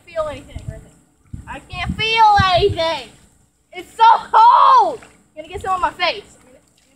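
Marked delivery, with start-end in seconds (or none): 2.0-5.0 shrieking. Real, not acted. Shrieking under the hose.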